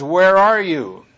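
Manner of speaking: loud, slow, stern call; God calling sternly to Adam, loud and rough. Shown as a demonstration. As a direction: bark the question out sternly. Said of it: "I'm saying it kind of roughly".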